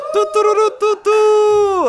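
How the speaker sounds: high shouted trumpet fanfare, sung out on nonsense syllables; mock fanfare. Teacher celebrating his own joke with a mock trumpet fanfare. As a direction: blast it like a victory trumpet after a punchline.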